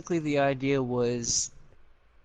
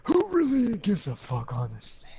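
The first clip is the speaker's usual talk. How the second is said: high, loud scoffing exclamation; loud exasperated outburst; 8 semitones higher, 5 dB louder than usual. Real, not acted. Repeats the aside louder and higher.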